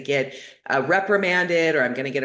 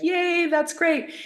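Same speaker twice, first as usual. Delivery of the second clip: slow, much higher cheer imitating the facilitator; a hint of an excited host; mock cheer; 13 semitones higher, slower than usual.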